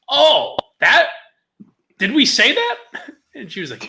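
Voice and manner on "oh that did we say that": mock innocent surprise. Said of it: "I was like".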